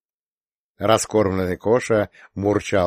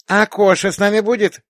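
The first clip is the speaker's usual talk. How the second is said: anxious question; 12 semitones higher, 6 dB louder than usual. A narrator's reading. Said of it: "тревожно спросила младшенькая".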